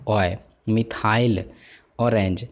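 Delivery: मिथाइल sounded out with a distinct "oy"-like glide in its middle; teacher sounding out मिथाइल to bring out the ऑय sound; pronunciation demo. Shown as a demonstration. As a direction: say मिथाइल, then ऑरेंज apart, showing the vowel glide. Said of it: "ऑय का उच्चारण आता है".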